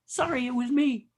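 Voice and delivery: lightly voiced sheepish frog puppet; a hint of puppet voice, apologetic; Kermit the Frog. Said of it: "he sounds just like Kermit the Frog".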